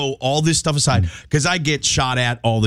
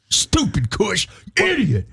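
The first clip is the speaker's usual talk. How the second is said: mock self-scolding; 7 semitones higher, slower than usual. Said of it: "I hear he gets".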